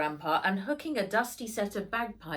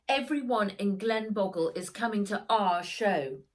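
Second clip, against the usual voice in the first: upset pleading; 4 semitones higher, 6 dB louder than usual. Acted. Child protesting bad news.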